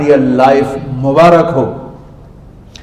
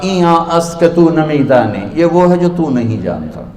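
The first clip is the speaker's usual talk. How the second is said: arrogant. Retold or imitated. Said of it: "बड़े तकब्बुर से कहा".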